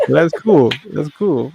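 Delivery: echoing mic sound; big hall echo. Real, not acted. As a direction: voice ringing like in a hall. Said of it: "they say I'm echoing".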